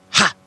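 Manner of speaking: short pleased ha; a quick gleeful ha; triumphant ha. Acted. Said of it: "thought he".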